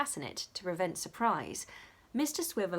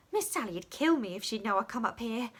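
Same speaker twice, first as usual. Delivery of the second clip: lightly voiced girl; fearful, explaining herself; a hint of the scared little maid; small servant; 3 semitones higher, 4 dB louder than usual. A narrator's reading.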